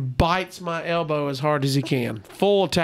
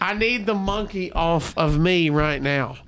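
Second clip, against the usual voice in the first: slow, measured insistence; strained politeness. Retold or imitated. Guest politely demanding owner remove monkey, slow and firm. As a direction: spell it out slowly, keeping it polite. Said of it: "I don't know how to politely say".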